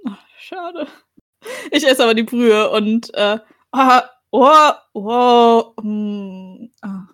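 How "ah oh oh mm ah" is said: eating sounds. Acted. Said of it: "Live-Reaktion von ihrem Foodgasm".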